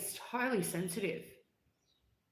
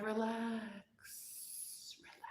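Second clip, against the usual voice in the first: taunting father; 4 semitones higher, 11 dB quieter, faster than usual. Retold or imitated. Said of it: "And he'd be like".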